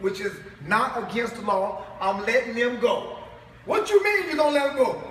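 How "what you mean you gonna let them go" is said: higher and louder, disbelieving; incredulous retort. Retold or imitated. Preacher voices a listener's shocked question to Obama, incredulous. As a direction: throw back the shocked question.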